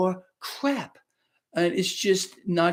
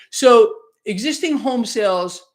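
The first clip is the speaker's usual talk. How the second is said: chuckling through the words; can't help laughing at the bad news; slow, amused laugh mid-sentence; 2 semitones higher, 7 dB louder, slower than usual. Real, not acted. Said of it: "I'm laughing".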